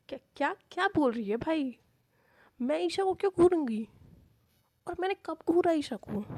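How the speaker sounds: flustered stammer. A narrator's reading. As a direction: stumble over the first words in panic. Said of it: "Tanvi हकलाते हुए कहती है". (घबराकर हकलाते हुए इनकार)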